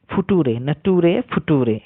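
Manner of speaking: ফুটুরে and নাটুরে said slowly, spelled out as written; slow mock of ফুটুরে নাটুরে; mocking wrong reading. Retelling the viral teacher, slow mock ফুটুরে নাটুরে. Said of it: "এরকম উচ্চারণ করছিল".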